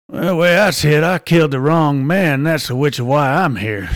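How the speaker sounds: lightly voiced hardened criminal; a hint of stoic gallows bravado; hard, stoic convict. Second condemned man giving last words before the hood, lightly played stoic. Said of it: "a little more hard and kinda stoic".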